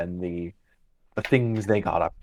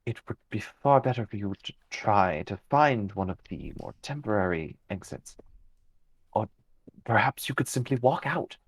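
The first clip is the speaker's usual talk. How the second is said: calm fey guide. Acted. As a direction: speak as an unhurried, cryptic fey creature. GM voices a fey figure.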